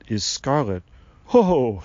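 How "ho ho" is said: loud, jolly "ho, ho"; laughing. A narrator's reading. Tree man realizing his mistake, laughing. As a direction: laugh at your own mistake. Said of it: "said and laughed".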